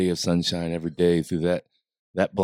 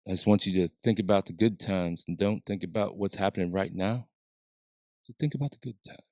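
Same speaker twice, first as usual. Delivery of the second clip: softer hushed comforting tone; calming voice; 6 dB quieter than usual. Retold or imitated. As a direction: gently urge him like a soothing counselor. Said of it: "does that calming voice of his".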